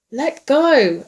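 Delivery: very loud, high retort; shouted back. A narrator's reading. Second man answering in a scuffle, shouted back. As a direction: shout it while struggling free. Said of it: "a second voice answered back".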